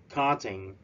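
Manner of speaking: KARting, first syllable stressed. Shown as a demonstration. Teacher to students: first syllable stressed. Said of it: "the first syllable".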